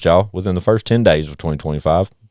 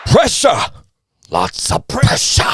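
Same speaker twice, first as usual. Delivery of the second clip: high, drawn-out hype yell; 12 semitones higher, slower than usual. Pretend. Host hyping the new album, yelled. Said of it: "Pressure like I can yell it".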